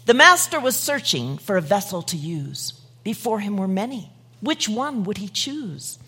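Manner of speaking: measured, unhurried poem reading. Acted. Preacher reading a poem to the listeners, gently. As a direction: read the verse with care. Reads a rhyming poem aloud.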